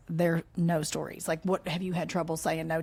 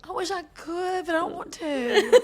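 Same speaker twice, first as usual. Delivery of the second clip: mimicking quote, laughing; 10 semitones higher, 3 dB louder than usual. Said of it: "echoing the quote back".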